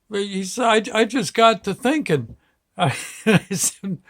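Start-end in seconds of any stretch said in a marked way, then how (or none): 0.9-2.4 put-on higher-pitched upset little boy; mildly tearful retold kid voice; imitating tearful child. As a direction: play a small child who has been crying. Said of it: "Burgess starts crying".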